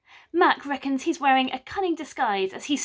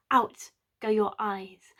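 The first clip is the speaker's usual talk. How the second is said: slow incantation; 2 semitones lower, slower than usual. Acted. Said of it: "he spoke a spell over them".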